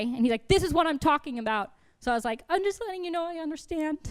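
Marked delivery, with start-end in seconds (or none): 0.5-1.7 higher-pitched mock exasperation; exasperated teacher. Teacher calling out a student's sass, exasperated. 2.5-4.0 high-pitched sassy comeback. Retold or imitated. Student answering back to a teacher, sassy. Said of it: "being disrespectful and being sassy".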